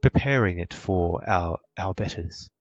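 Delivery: put-on an old servant musing aloud; old motherly halfling.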